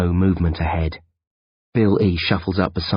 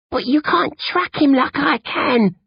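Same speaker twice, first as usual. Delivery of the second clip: tearful protest. Acted. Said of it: "Bill E demurs".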